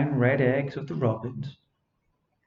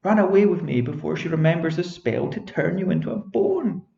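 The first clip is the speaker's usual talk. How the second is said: urgent fairy; 5 semitones higher, 4 dB louder than usual. Acted. Fairy urging escape.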